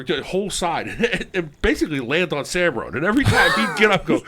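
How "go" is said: ordinary talk, nothing marked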